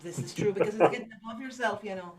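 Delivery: bad stage Irish accent. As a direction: lay on a thick Irish lilt. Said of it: "do not do good, uh, Irish accents".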